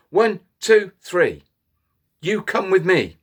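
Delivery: a touch of a commanding chief wolf; chief wolf counting. Acted. Chief wolf picks three wolves for the search. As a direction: count them off and order them along. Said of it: "chief wolf pointed ... and said".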